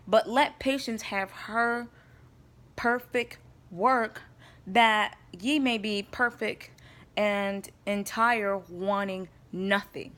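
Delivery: slow, solemn reading of verse; scripture reading. Acted. Reading James one two to her viewers, slow and solemn. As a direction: read each word of the verse slowly, like a preacher. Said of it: "and James one two says".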